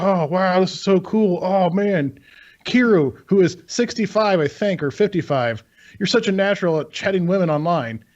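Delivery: excited guy. Retold or imitated. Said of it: "It's like".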